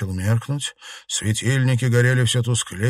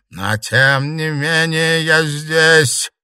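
slow, loud, high eerie voice; haunt them with it; ghost voice; 8 semitones higher, 7 dB louder, much slower than usual. A narrator's reading. Ghost insists to the club she is here, slow and eerie.

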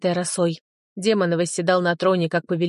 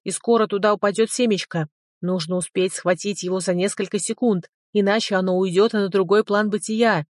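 droning dragon voice; 2 semitones higher than usual. Acted. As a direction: hurry him along, little dragon. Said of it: "загудел дракон в моей голове". (гудящий голос дракона)

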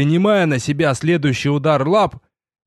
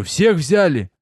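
pressing the question again, a bit higher; impatient repeated question; insistent repeat; 3 semitones higher, slower than usual. A narrator's reading. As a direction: demand an answer this time. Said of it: "Я спрашиваю".

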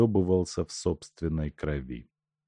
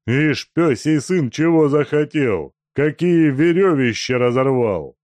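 high, loud scolding; angry cursing; 8 semitones higher, 8 dB louder than usual. Acted. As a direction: rage at the broken ropes. Тумба ругается на Сеньку. (злая брань)

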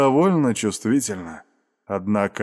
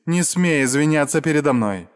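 строго; 4 semitones higher than usual. Acted. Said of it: "уже строго произнесла наёмница".

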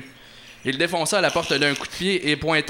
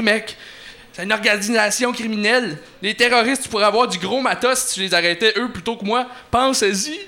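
higher, laid-back dude voice, mec; slacker vandal bargaining; 5 semitones higher than usual. Acted. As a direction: wheedle the hunter into a deal.

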